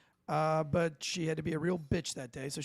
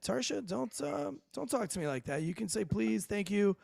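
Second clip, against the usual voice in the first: higher-pitched reproach, lightly acted; mild retold scolding; 4 semitones higher than usual. Teller recalls telling Tarsha to be polite, mild higher scolding. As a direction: lightly act out asking for some manners.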